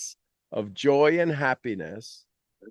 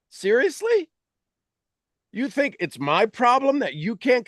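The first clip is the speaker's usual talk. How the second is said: incredulous; 8 semitones higher than usual. Real, not acted. Mocking disbelief at audience.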